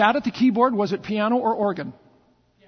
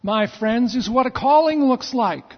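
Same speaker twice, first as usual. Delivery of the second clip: preaching; 3 semitones higher than usual. Acted. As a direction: build up the congregation with passion. Pastor preaching with force.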